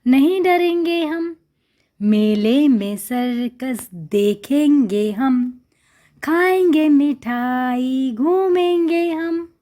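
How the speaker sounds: slow, drawn-out line reading; reading lesson aloud. Shown as a demonstration. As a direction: read it slowly for young learners.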